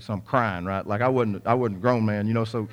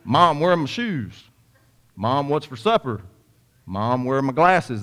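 lightly imitated needy kids, slow and drawn out; children calling mom; 3 semitones higher, 4 dB louder than usual. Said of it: "questions that children always ask their mom".

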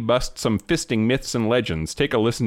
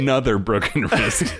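laughing; 2 semitones higher than usual. Real, not acted. Repeating the punchline while laughing.

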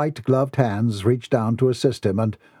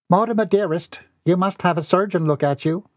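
commanding; 7 semitones higher than usual. Acted. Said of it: "Lily Lou commanded".

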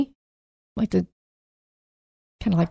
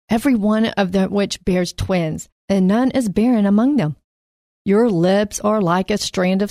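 scripture reading. Acted. Reads Song of Solomon passage.

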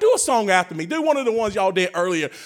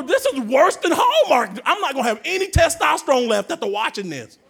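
mock complaint; 5 semitones higher, 3 dB louder than usual. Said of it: "I told her".

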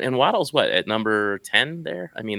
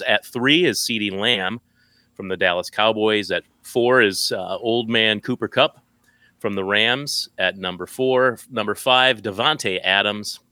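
top ten countdown. Acted. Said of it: "you used your announcer voice to tell us what the twelve".

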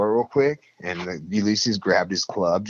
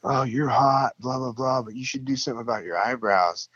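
higher, mock-sweet girls' voice; teasing girls; 4 semitones higher than usual. Rehab girls teasing the roommate about his eyebrows, mock-sweet. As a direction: tease it in a sing-song girly tone.

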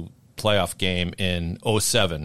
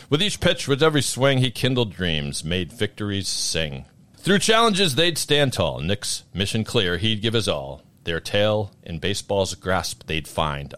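Ken Burns narrator. Acted. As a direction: read it like a grave history documentary. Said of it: "I'm gonna put on my Ken Burns narrator voice for this".

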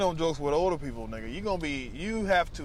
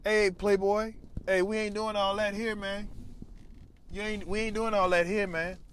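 imitating convict; 3 semitones higher than usual. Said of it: "convicts say playboy".

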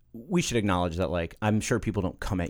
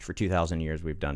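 dim-witted voice; 4 semitones lower, 3 dB quieter than usual. Pretend. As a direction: play it dumb and sluggish. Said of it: "Read that as an ellipsis".

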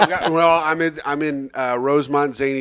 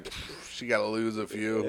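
mock dismissive; 5 semitones lower, 11 dB quieter than usual. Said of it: "I'd be like".

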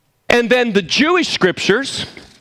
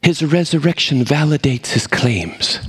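put-on British accent; 4 semitones lower than usual. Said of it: "As my British professor used to say".

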